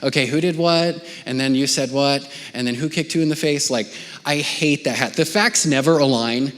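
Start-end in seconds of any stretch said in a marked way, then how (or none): 0.0-3.7 a hint of a weary interrogating parent; quick-fire questions, mildly mock stern; investigator parent. Father questioning his kids after a fight, lightly mock stern. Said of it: "put on my least favorite parenting hat, the investigator hat".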